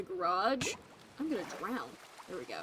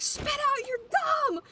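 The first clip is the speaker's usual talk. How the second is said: much higher, louder repeat of the order; urgent command; 5 dB louder than usual. Retold or imitated. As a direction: mom insisting, sharper now. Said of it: "she's like".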